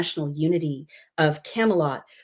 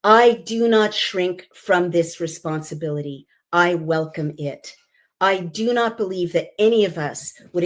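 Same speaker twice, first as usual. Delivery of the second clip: oratorical reading. Shown as a demonstration. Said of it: "listen to the music here, listen to the rhythm of the words".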